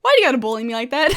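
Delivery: fast, laughing mock complaint; laughing whine. Bowser complaining about being bullied, laughing. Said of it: "he looks at me and goes".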